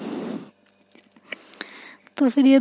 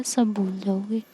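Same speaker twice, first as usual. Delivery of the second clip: whispered; 3 semitones lower, 7 dB quieter than usual. Acted. Tanya pleads softly with Ishika.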